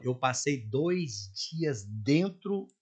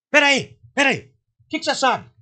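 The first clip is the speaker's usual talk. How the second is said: loud, higher, slowed "peraí, peraí"; excited interruption; 10 semitones higher, 8 dB louder than usual. Retold or imitated. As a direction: stop everything, suddenly hooked. President suddenly interested, retold.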